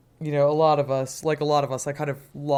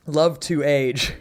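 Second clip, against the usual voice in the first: dry sarcasm; 4 dB louder, much slower than usual. Real, not acted. Ironic remark on aging.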